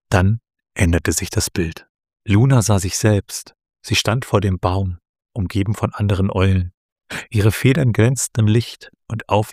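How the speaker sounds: measured storytelling read with small character voices; story narration. A narrator's reading. Host reading a story chapter to her co-host, in a calm storytelling voice.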